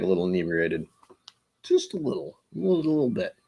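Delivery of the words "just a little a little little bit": teasing. Pretend. Teasing about people getting tipsy.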